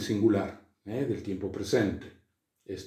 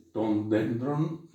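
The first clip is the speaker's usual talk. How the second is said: slow citation; much slower than usual. Shown as a demonstration. Teacher citing Greek phrase.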